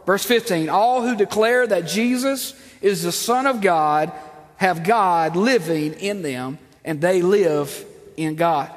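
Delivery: slow, solemn scripture reading. Acted. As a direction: read each verse slowly and deliberately. Reads scripture slowly.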